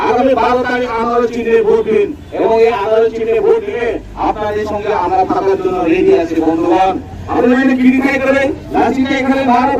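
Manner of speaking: rally speech. Real, not acted. Rousing voters at rally.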